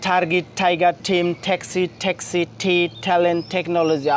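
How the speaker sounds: "টার্গেট" through "টেকনোলজি" in one run, each T aspirated as ঠ; one-breath drill. Shown as a demonstration. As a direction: chain "টার্গেট, টাইগার" onward evenly, puffing every opening T. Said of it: "এক নিঃশ্বাসে পড়ার চেষ্টা করি".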